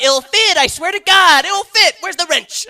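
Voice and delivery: frantic high-pitched shouting; desperate voice. Acted. Man cramming a bike into a date's car, desperate high shout. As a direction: yell it in hammed-up desperation. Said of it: "All right, enough with the voice".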